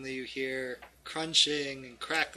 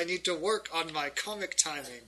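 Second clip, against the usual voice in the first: slightly hammed-up villain, louder at first; theatrical villain; 2 semitones higher, 5 dB louder than usual. Villain revealing himself to the adventurers, theatrical. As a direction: lament your joke with villainous flair.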